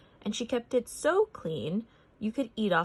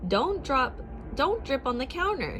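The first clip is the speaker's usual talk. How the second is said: snapped; 6 semitones higher than usual. A narrator's reading. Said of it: "she snapped at her customers".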